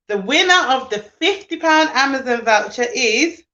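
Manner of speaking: building up to the reveal with a gasp; real excited winner announcement; suspenseful announcement. Real, not acted. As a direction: announce it like a prize draw.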